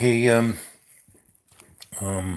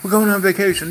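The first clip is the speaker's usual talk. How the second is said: excited Gary; 9 semitones higher, 4 dB louder, faster than usual. Retold or imitated. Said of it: "He goes".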